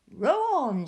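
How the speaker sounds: loud command; shout. A narrator's reading. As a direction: bark the order at the rowers. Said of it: "shouted Mister Wonka".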